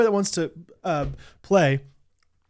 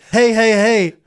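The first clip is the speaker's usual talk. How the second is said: drive-thru worker; 3 semitones higher, 6 dB louder, slower than usual. Retold or imitated. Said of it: "Can you imagine? She drives up".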